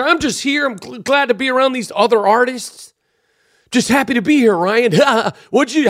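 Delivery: lightly imitating chirpy celebrity chit-chat; mock red-carpet small talk. Star chatting to Ryan on the red carpet, mock red-carpet niceness. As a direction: put on polite awards-show pleasantries. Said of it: "red carpet behavior".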